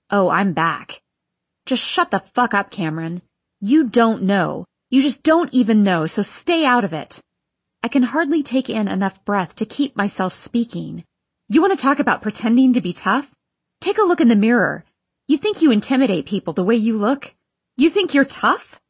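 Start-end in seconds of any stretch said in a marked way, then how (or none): 1.6-7.2 angry outburst. Acted. Furious outburst at Cameron. 11.5-18.8 fast, loud, rising fury; angry shouting. Acted. He yells back, escalating.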